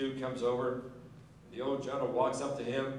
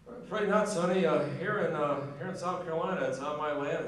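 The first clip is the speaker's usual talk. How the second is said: put-on higher, louder folksy old general; old general's reply; 5 semitones higher, 4 dB louder than usual. The old general refuses the lawyer, folksy and louder. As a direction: plant your feet and refuse him politely.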